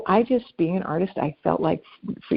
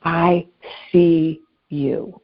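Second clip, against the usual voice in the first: slow emphasis; much slower than usual. Shown as a demonstration. Slowly spelling out what kindness is.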